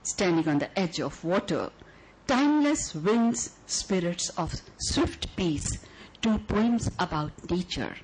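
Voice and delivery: measured, lyrical poem reading; poetry recital. Acted. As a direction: read it like a love letter to the audience.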